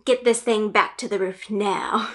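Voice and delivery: mock captain's command at normal volume; lightly acted bark, put-on voice; barked order. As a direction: play a poacher captain giving orders. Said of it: "the poacher captain barks".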